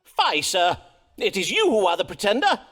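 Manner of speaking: doctor confronting the fake merchant, indignant; angry accusation. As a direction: accuse him, voice rising.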